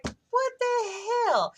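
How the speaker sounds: very high, loud, drawn-out squeal; outraged disbelief. Retold or imitated. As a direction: stretch it out in a high, loud fangirl wail. Acts out outraged fangirl reaction.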